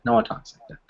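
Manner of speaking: breathy whispered aside. Real, not acted. Teacher whispering an amused aside to the class. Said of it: "unvoiced aside".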